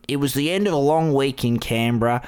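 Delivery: lightly voiced, half-hearted politician impression; terrible Jackie Lambie. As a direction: attempt a bad impression of the senator, only slightly put on. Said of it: "This is a terrible Jackie Lambie impression".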